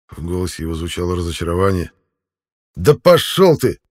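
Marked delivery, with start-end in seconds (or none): 2.8-3.8 loud, high, slowed snarl of defiance; angry bark. A narrator's reading. Prisoner snarls at his captor, loud angry bark. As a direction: bark it back at him. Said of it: "рявкнул я".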